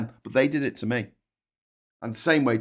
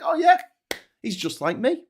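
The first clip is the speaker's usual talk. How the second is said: mocking dim voter; 14 semitones higher than usual. Mocking Trump voters who see themselves in him, high and gormless. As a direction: sneer at the voters by playing them dopey. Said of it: "and they're like".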